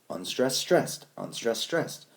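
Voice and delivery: "unstressed, STRESSED" rising to the second word; iambic pattern. Shown as a demonstration. Teacher reminding class how pentameter goes, iambic pattern. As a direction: lift each "stressed" above "unstressed". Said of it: "iambic pentameter goes".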